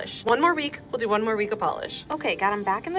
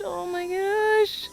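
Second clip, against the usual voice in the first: breathless whispered "oh my gosh", slow and high; awed whisper; 8 semitones higher, much slower than usual. Real, not acted. Hobbyist marvels at the rainbow shift, whispering in awe.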